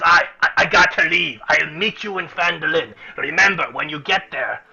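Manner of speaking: hasten to leave; hurried dwarf. Acted.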